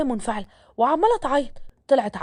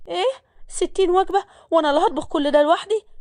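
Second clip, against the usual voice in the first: higher-pitched incredulous protest; shocked maid; 5 semitones higher than usual. Acted. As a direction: voice a woman balking at a huge order. Maid balks at huge cooking order. (استنكار ودهشة بصوت أعلى نبرة)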